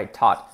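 "taught" with an open A, like "taht"; wrong A vowel. Shown as a demonstration. Teacher shows what to avoid, "taught" with full A. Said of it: "ni una A".

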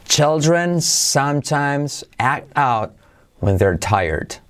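very slow, with gaps between words; slow it right down for repetition; slow model sentence. Shown as a demonstration. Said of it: "Velocidad normal". (despacio, separando las palabras)

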